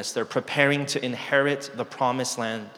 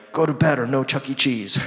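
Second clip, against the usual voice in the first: mock threat; 3 dB louder than usual. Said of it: "I'm, like, threatening my kids".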